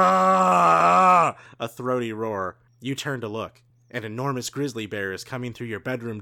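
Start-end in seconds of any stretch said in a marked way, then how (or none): 0.0-1.4 high, loud triumphant hurrah; loud cheer. Acted. Reader cheers as the battle turns, loud and high. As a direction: shout it like a victory cry.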